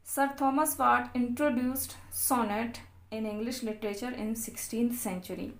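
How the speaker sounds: reading notes aloud very slowly, word by word; slow dictation reading. Acted. Teacher dictating English notes to students, very slow and deliberate.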